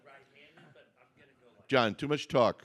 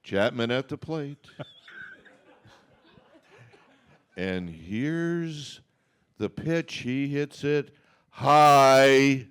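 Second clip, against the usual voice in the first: play-by-play; 2 semitones lower, much slower than usual. Acted. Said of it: "remember, the call has to come from".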